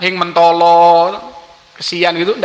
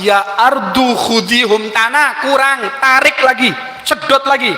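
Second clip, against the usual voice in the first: a prophet losing patience; impatient command; 4 semitones higher than usual. Acted. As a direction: order it again, still unsatisfied. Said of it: "Nabi Musa ndak puas".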